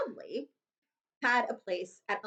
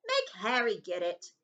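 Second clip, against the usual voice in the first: slow, lazy bratty voice; lightly voiced spoilt boy; spoilt whine. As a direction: push it off onto him. Dudley whining.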